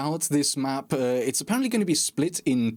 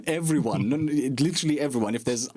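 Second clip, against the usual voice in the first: sarcastic. Real, not acted. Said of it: "hopefully you can hear the sarcasm in my voice".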